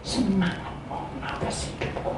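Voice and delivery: very soft, low plea to God; murmured humble prayer; quiet prayer. Acted. Models faithful prayer.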